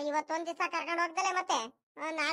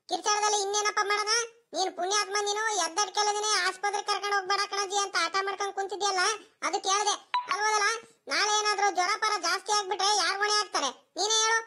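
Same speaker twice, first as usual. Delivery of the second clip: raised-voice telling-off, a little higher; scolding grandmother; 3 semitones higher than usual. Acted. Grandmother scolds grandson refusing the hospital, voice raised in exasperation. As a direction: scold the child with mounting exasperation. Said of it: "ಈ ಅಜ್ಜಿ ಮನೆಯವ್ರಿಗೆಲ್ಲ ಕೇಳಂಗ್ ಕಿರ್ಚಾಡ್ತೈತಿ".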